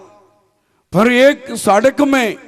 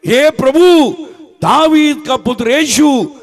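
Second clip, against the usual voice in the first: mildly raised voice, imitating a plea; retold cry for mercy; 2 semitones higher than usual. Preacher voices the blind man crying to Jesus, mildly shouted. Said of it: "चिल्लाया है".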